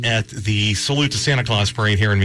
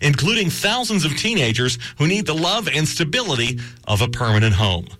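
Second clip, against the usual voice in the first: measured, emphatic radio appeal; polished announcer read; public-service announcement; 2 semitones higher than usual. Acted. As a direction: read it as an adoption PSA, stressing key words.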